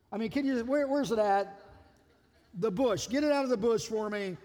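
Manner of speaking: half-exasperated, teasing rebuke; exasperated Jesus. Retold or imitated. Jesus scolding Peter over the cut-off ear, mock exasperated. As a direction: scold Peter like a patient friend. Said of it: "I can just hear Jesus going".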